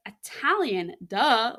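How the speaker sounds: a light mock "duh", as if it's obvious; teasing, mock-obvious reply. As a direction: toss off the answer like it's obvious. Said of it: "And I was like".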